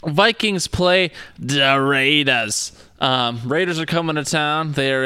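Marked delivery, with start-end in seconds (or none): 0.0-2.7 slow pumped-up hype read; hyped-up announcement. Acted. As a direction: try to sound hyped and drawn out. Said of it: "your attempt at amping yourself up".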